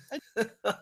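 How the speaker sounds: breaking into real laughter; helpless giggling; laughing. Real, not acted. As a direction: crack up at your own silly bit. Cracks up at own impression.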